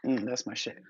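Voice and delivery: hushed whisper of pleasure. Real, not acted. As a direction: breathe it out under your breath. Savoring favorite music.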